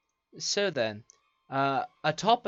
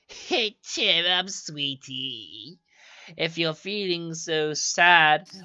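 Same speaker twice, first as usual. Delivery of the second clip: crone peddler; 2 semitones higher, slower than usual. Acted. GM voices old crone baker.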